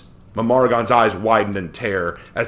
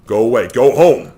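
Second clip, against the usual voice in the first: louder, sharp order; shouted; 8 dB louder than usual. A narrator's reading. Mamaragon orders his sister home, shout. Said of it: "he shouted".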